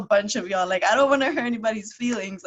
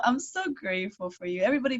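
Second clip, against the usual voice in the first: ordinary talk, nothing marked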